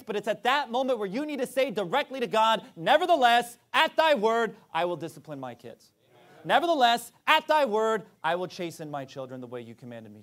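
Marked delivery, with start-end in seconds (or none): 2.7-5.9 raised, louder on "Nevertheless, at thy word"; vow to God. Pretend. Parent vowing to God, raised then dropping. 6.4-10.2 raised, louder on "Nevertheless, at thy word"; vow to God. Pretend. Parent vowing to God, raised then dropping.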